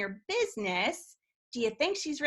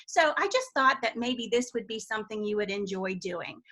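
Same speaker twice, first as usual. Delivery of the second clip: sincere invite; 2 semitones lower than usual. Shown as a demonstration. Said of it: "I would actually say".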